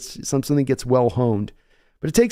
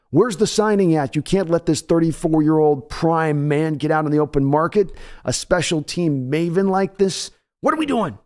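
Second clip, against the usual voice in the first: mock outrage; 2 semitones higher than usual. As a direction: ham up the fan's outrage.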